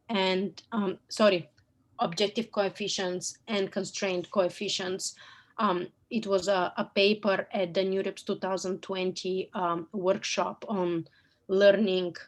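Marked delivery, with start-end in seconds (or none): 5.6-12.1 losing her voice, hoarse; hoarse, strained throat. Real, not acted. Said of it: "I'm losing my voice".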